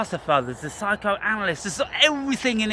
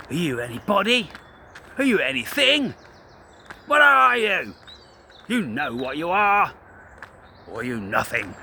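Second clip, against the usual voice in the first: confrontational challenge. Retold or imitated. Challenging a crowd at a venue, rising angry demand. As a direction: confront them to their faces. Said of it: "And I'll be asking you".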